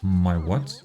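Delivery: low, puzzled question with a rising end. Acted. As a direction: ask it low and bemused, lifting at the end. Puzzled reaction in acted dialogue.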